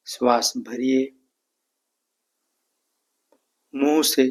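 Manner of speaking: calm, evenly spaced meditation instructions; guided meditation. Real, not acted. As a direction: lead them calmly through each breath, unhurried. Leads breathing and meditation.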